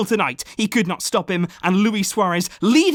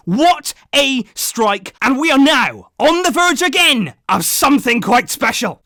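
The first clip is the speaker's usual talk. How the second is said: slow, louder, marvelling at the goal; awed excitement; 2 semitones higher, 4 dB louder than usual. Real, not acted. Fan hailing Messi's goal to viewers in awe. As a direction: let the wonder swell on "What a strike".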